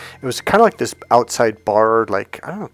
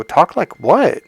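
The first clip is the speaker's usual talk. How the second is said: puzzled; 7 semitones higher, 6 dB louder, slower than usual. Retold or imitated. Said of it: "I go".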